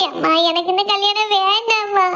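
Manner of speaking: slow, drawn-out tearful plea; tearful pleading. Acted. Daughter begs her mother to call off the wedding, tearful. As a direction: beg mother, dragging out the words. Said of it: "தரையில படுத்து அழுதுட்டு கிடக்கா".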